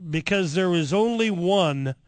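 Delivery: slow, deliberate delivery; slow punchline. Retold or imitated. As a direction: let each word land slowly. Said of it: "he says".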